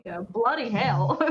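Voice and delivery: slow attempt at a British accent; loosely British, drawn-out exclamation. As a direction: try a British accent, drawing the words out. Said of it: "I can't do a British accent".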